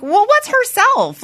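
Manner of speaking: squeaky high, slow worried question; high fretful owner. Retold or imitated. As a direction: go way up and fuss, slowly. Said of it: "And then I'm like".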